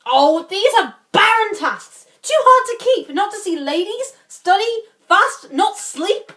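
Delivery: swooping pitch and long pauses as you balk; reluctant protesting lord. Acted. Playing Barone, balking at the oath.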